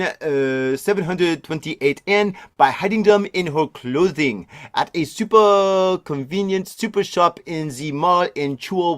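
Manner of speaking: put-on a shaky, half-hearted French accent on a news read; bad French accent. Reading a French tourist story to listeners, in a bad French accent. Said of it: "Maybe we should do a French accent".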